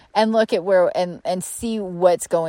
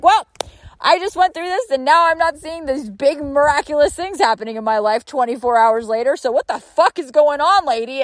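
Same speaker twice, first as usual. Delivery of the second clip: high, indignant whiny voice; mock complaining client; 7 semitones higher than usual. Mimicking a client complaining a day later, high and indignant. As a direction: gripe like a demanding customer. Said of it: "complain and be like".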